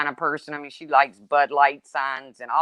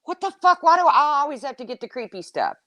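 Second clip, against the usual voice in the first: exasperated outburst; 9 semitones higher than usual. Retold or imitated. Complaining to sister about creepy chores, high exasperated outburst. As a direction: squeal it like you always get stuck with it. Her own retold outburst.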